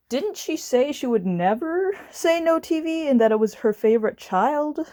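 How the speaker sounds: indignant question, rising at the end; freaking out. Retold or imitated. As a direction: protest in mild disbelief. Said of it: "And I'm freaking out".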